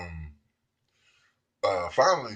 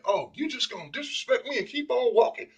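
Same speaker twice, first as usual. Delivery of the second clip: scolding mother; 12 semitones higher than usual. Retold or imitated. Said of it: "like a mother talking to her child".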